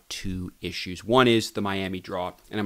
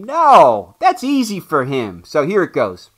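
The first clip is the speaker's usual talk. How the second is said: booming, higher-pitched brag; loud Hulk boast; 5 semitones higher, 9 dB louder than usual. Pretend. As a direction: boast like a strongman. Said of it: "a problem pronouncing".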